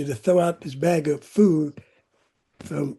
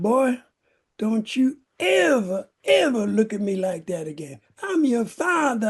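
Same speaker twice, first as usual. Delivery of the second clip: put-on high, sharp scolding of a defiant boy; a father laying down the law, slowed on don't you ever; angry father; 5 semitones higher than usual. Father glaring back at his son, angry scolding.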